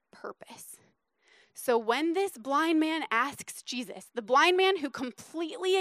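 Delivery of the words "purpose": barely-there whispered "purpose"; pause, then drop to a whisper; very soft, unvoiced key word; hushed emphasis. Shown as a demonstration. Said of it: "Let me say that again".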